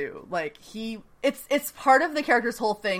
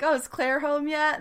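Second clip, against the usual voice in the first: lightly voiced creepy villain; 7 semitones higher than usual. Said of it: "he's just like".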